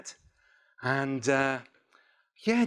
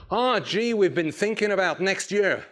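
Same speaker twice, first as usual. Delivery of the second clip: louder, lightly mimicked American accent; 4 semitones higher, 3 dB louder than usual. American boss raising next year with an employee, attempted American accent. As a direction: imitate an American boss leading into business. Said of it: "he was American".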